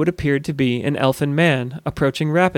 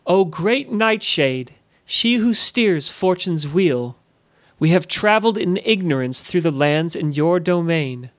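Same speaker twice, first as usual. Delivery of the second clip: calling out loudly. Acted. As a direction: intone it grandly, as if into a storm. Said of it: "called out loudly".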